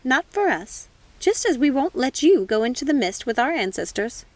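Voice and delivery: lightly voiced witch mother; comforting witch. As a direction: soothe her daughter gently.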